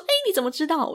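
high, squeaky "how did you know?"; mock surprise. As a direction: play the saleswoman caught off guard. Saleswoman surprised at the answer.

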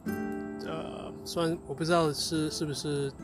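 ordinary talk

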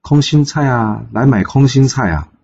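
high, drawn-out street-seller cry; vendor's call. A narrator's reading. Roadside woman hawks water spinach to passers-by, calling out. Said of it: "遇到路边一个女子在喊".

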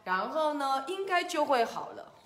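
a hint of a storybook doctor; pig doctor. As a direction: reassure the patient with lilting confidence. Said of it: "他就说".

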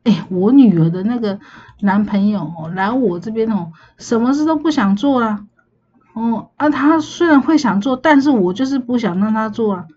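lightly voiced grumbling auntie; a touch of auntie-style grumbling; mock complaining. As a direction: imitate an older relative complaining about her daughter's boyfriend. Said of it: "他就会在抱怨说".

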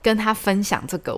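high, rushed replay of her own panic; high-pitched mock panic; panicked inner voice. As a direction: relive the moment you realise you're doomed. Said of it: "很焦虑，很焦虑".

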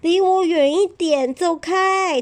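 high, loud shooing cry; rabbit shooing away. Acted. Rabbit telling the spiky hedgehog to go away, loud and high.

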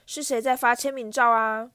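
loud beaming query with the stress on 照; showman's call. Acted. Vain teacher striding in on the crowd, loud grand call. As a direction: announce 签名照 like a celebrity arriving. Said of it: "吉德罗哈正大步朝他们走来".

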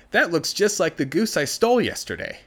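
high, loud, naive outburst; blurted surprise. Acted. The boy spots his stolen goose and blurts it out, high and loud. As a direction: blurt it out before thinking.

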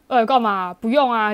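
lightly put-on macho refusal; a hint of acting manly; 装man. Shown as a demonstration. Coaching a friend to refuse, lightly put-on manly voice. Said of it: "你这时候要装man说".

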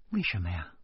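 soft, gentle question; concerned. Acted. Teacher leans in to ask the man, gently concerned. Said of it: "李爱佳关心地凑过来说".

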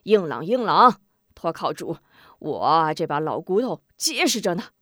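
lightly voiced cheerful old woman; a touch of proud old grandma; 老人笑着说; laughing granny. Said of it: "康婆婆笑道".

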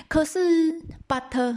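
high, slow, stretched "but"; drawn-out turn. Acted. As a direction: stretch the objection out theatrically. Wife turns to her objection.

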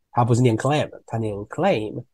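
"clam" flat a then "claim" with ay; clam versus claim. Shown as a demonstration. (对比 clam 与 claim)

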